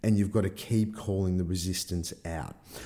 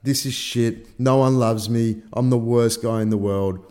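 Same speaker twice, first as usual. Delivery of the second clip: hammed-up self-pity, getting louder; retold freak-out; 6 dB louder than usual. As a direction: moan in mock despair. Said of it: "Freaking out".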